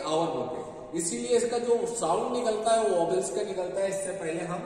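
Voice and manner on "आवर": "आवर" with the h left silent; correct pronunciation. Shown as a demonstration. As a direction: begin "आवर" on the vowel, no h. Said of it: "क्या बोलते हैं?".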